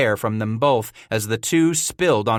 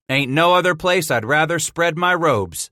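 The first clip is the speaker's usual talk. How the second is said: declaring; 6 semitones higher, 3 dB louder than usual. A narrator's reading. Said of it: "Scratch declared".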